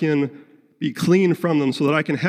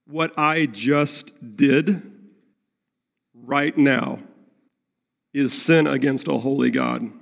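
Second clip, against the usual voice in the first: sincere repentance. Shown as a demonstration. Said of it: "Godly sorrow says".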